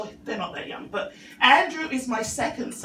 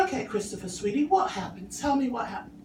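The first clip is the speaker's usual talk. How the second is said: gentle coaxing mum; 5 dB quieter than usual. Retold or imitated.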